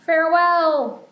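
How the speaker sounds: a goofy dragon saying goodbye. Acted. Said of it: "That was a stupid dragon voice".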